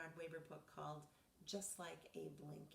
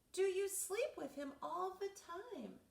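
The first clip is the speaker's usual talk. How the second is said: asked again, louder and higher; louder repeat; 13 semitones higher, 8 dB louder, slower than usual. Acted. Repeating question Reggie didn't hear, louder. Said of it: "repeats after What?".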